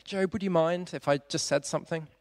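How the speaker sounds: gently. Shown as a demonstration. Eliphaz politely asking Job's leave to speak, gentle. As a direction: ask as if afraid to intrude. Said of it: "he says it really gently".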